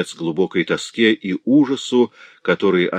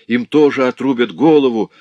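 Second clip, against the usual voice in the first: loud, high cry of doom; anguished exclamation; 6 semitones higher, 7 dB louder than usual. Acted. Сестра в ужасе восклицает о казни, громко. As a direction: cry out in horror. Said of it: "воскликнула тыква".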